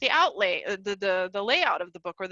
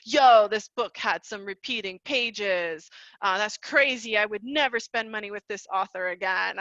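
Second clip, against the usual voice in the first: imitating a reviewer. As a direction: drag it out like a fed-up reviewer. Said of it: "people who legitimately were like".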